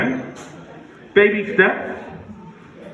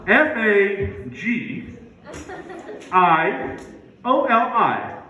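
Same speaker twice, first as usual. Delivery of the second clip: F A G I O L I spelled very slowly, letter by letter; slow spelling; 3 semitones higher, much slower than usual. Shown as a demonstration. Comic spelling fagioli to the crowd, very slow. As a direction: drag out each letter of F A G I O L I. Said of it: "Let me spell that for you".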